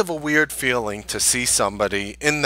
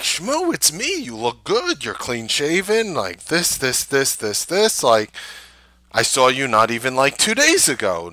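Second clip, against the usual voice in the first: eager insisting; 2 semitones higher than usual. Retold or imitated. Insisting he knows the man.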